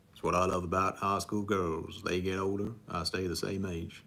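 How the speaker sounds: a Matthew McConaughey impression fluffed with the words swapped; botched first try at the movie line; wrong take of the impression. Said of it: "I said that wrong".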